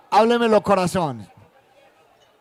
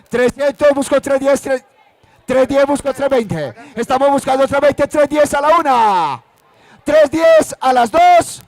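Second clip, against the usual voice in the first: auctioneer chanting rising bids; rapid auctioneer. Real, not acted. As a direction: keep the bids rolling, auction style. Live auction bidding calls.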